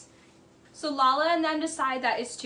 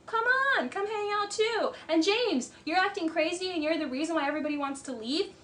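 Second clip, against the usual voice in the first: mock Christina invite; 4 semitones higher than usual. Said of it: "She's like".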